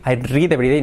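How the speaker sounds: "read" with a trilled R, Spanish accent; Spanish-accented mispronunciation. Shown as a demonstration. Teacher shows learners what to avoid, Spanish-accented demo. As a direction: say "I read every day" with Spanish sounds and rolled R.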